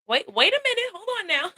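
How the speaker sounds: playful high wait-a-minute; mock objection. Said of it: "And I kept going".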